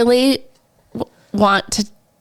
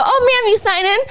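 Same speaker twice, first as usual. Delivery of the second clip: quoted staff voice; 13 semitones higher than usual. Retold or imitated. Quoting the massage guy.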